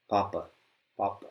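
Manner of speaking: papa with a puff of air; papa said softly with breath on the p; papa demo. Shown as a demonstration. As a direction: say papa with a light aspirated p. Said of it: "we're gonna use the word papa".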